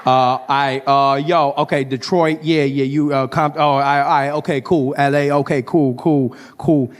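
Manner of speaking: awkward, stumbling American dude voice; flustered American comedian. Acted. Comedian apologising to the man from Detroit, flustered American voice. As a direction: backpedal with a string of filler words.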